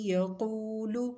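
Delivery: یقولو chanted in recitation tone; recited word. Shown as a demonstration. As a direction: say یقولو as in Quran reading. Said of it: "کیسے ملانا ہے". (تلاوت کے انداز میں)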